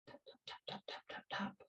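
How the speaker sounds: soft unvoiced tap, tap, tap; whispered counting. Shown as a demonstration. Teacher whispering the tapping rhythm while demonstrating. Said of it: "demonstrating the tapping rhythm".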